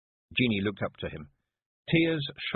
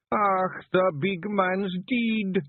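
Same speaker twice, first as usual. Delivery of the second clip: sobbing; 12 semitones higher, 4 dB louder, much slower than usual. A narrator's reading. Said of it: "he sobbed".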